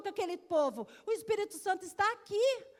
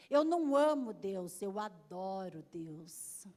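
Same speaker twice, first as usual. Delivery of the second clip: put-on child voice; 10 semitones lower, slower than usual. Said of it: "porque é uma criança".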